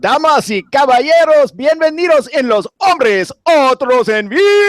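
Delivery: high booming ring announcer shout; lucha libre announcer. Pretend. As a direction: welcome the crowd like a wrestling emcee. Opening show intro in Spanish.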